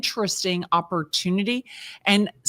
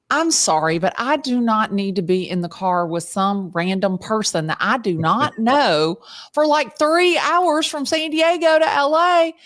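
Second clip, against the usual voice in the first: mock protest; 3 semitones higher than usual. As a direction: play up refusing an unwelcome plan. Replays her protest to organizer.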